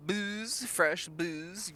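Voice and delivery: market crier. Acted. Merchant hawking wares.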